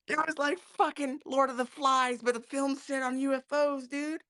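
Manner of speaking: high-pitched, talking through laughter; laughing. Real, not acted. Guest recalling a chaotic film set, laughing. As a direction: tell it while cracking up.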